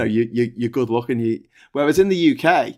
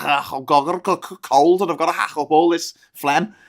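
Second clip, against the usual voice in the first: put-on strong Scouse accent; 3 semitones higher than usual. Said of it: "really strong whacker Scouse accent where they're actually hacking up".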